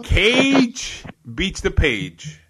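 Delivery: slow, high, loud headline call; headline announcer. Acted. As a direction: boom it out like a headline.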